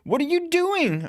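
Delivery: protesting as the cab jolts to a stop; protest up an octave. Acted. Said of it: "I protest, my voice going up a painful octave".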